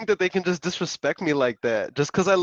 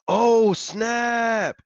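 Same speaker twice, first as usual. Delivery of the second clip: surprised exclamation; 5 semitones higher than usual. Real, not acted. Sudden surprise on live stream.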